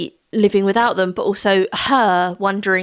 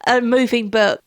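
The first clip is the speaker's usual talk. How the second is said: real tears breaking through a laugh; crying while laughing it off; tearful, a little higher; 5 semitones higher than usual. Real, not acted. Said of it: "I don't know why I'm crying".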